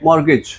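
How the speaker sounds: मॉर्गेज as "mor-gej", no T; silent T. Shown as a demonstration. Teacher builds the word for class, मॉर्गेज with silent T. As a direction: drop the T in मॉर्गेज and end on J. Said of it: "टी silent है".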